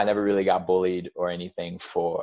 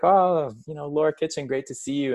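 high, cheery put-on Scottish accent; 8 semitones higher than usual. Greets old classmate in the shop, high cheery Scottish accent. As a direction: greet her in an overdone Scottish accent, pitched up. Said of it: "putting on the accent".

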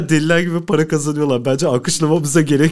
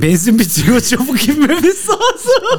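laughing mock pilot; 8 semitones higher, 6 dB louder, slower than usual.

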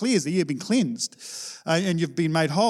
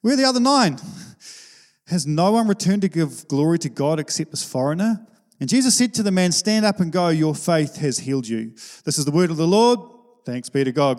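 lightly dramatized Bible reading, Jesus's questions pitched up; scripture reading. Acted. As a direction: read the gospel aloud to the congregation. Scripture reading before sermon.

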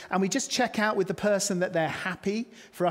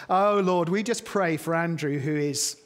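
mock fervent prayer; 4 dB louder than usual.

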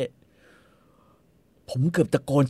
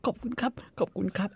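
1 stammering thanks; 5 semitones higher, 8 dB quieter than usual. Retold or imitated. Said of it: "Hermes บอก".

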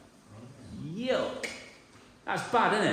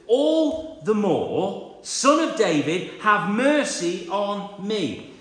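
loud, drawn-out desperate cry for mercy; 2 semitones higher, 4 dB louder, slower than usual. Acted. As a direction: call out over the crowd, slowly. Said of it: "he shouted".

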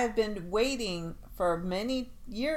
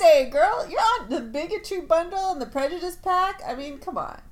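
excited; 9 semitones higher, 8 dB louder than usual. Pretend. Loud teasing of co-host.

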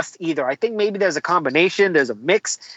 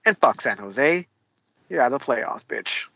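high school trash talk; 4 semitones lower, 3 dB quieter than usual. Acted. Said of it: "that sounded like high school".

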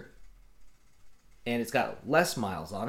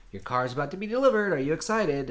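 high, chirpy company announcement; mock-excited email; 5 semitones higher, 4 dB louder than usual. Company email announcing a delivery to the buyer, mock excited.

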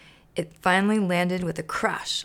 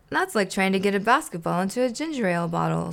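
fast, dismissive grouch; mild derisive snort; snorting scorn; faster than usual. Acted. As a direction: scoff it off quickly. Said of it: "snorted Oscar".

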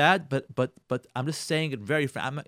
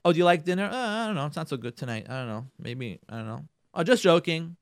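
sarcastic. Acted. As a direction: act out an offhand dig at dinner. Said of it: "being sarcastic with our wives".

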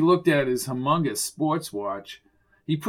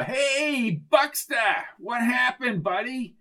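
high, sing-out hello to a pal; high-pitched chummy character voice; breezy buddy greeting; 9 semitones higher, slower than usual. Acted. Arnie greets the officer.

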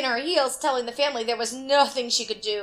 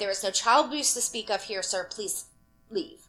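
icy; 3 semitones lower, 4 dB quieter than usual. Retold or imitated. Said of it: "icily replied".

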